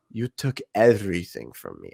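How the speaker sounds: hammed-up, low and soft grief; over-the-top Wanda. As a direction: overact the vengeful line. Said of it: "and I'm doing it way over the top".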